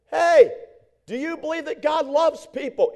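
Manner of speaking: mock shout, loud on the opening hey; shouting across the street. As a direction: call out from a distance, only half in earnest. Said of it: "He's shouting still".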